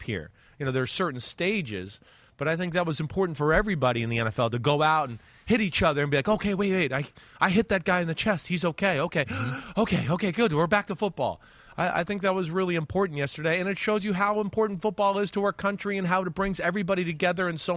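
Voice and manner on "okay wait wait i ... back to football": higher, anxious then relieved, with a gasp; mock relieved panic. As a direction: play a player checking the other guy is okay, then exhaling. Players relieved after first hit.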